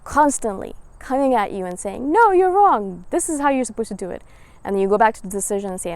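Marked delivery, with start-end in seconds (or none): 2.1-4.2 mock scolding voice. The world voiced scolding you.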